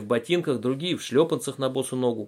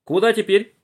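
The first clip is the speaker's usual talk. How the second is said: высокий вопрос; 9 semitones higher, 8 dB louder than usual. A narrator's reading. Булочкин спрашивает.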